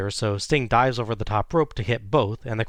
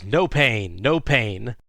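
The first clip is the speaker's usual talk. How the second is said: mildly raised imitation of a yell; mock yell; 4 dB louder, much slower than usual. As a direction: call it out like a toned-down wrestler's taunt. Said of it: "and yells".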